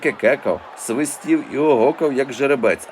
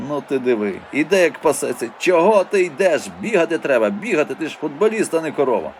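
scolding fan; 4 semitones higher than usual. Acted. Fan scolding slow footballer.

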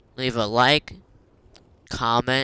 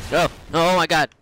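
exasperated yell; 6 semitones higher, 7 dB louder, faster than usual. Real, not acted. Losing point, player exclaims.

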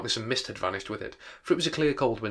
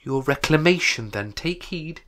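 commanding ghost; 6 semitones higher, 6 dB louder, slower than usual. Acted. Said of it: "it said immediately".

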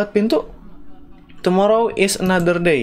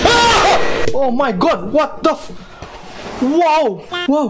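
terrified scream; 6 semitones higher, much slower than usual. Real, not acted. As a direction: shriek as it jumps out, then reel. Jumpscare in horror game.

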